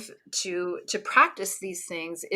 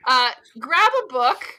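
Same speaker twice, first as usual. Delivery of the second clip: normal talking voice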